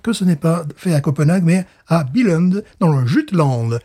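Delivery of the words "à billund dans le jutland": slow, put-on Danish place names; Danish accent. Host showing off to his co-host, mock Danish accent. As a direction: lean slowly on the Danish accent. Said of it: "vous avez apprécié mon accent".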